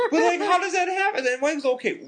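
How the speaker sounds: high-pitched question through laughter; laughing incredulity. Real, not acted. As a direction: ask in amused disbelief, cracking up. Laughing over the floating phone.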